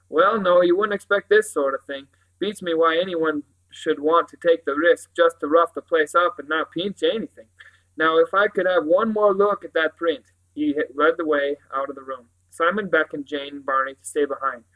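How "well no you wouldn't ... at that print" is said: emphatic, pondering sergeant; police sergeant, puzzled. Acted. Sergeant puzzles over a theft with nothing taken, pondering.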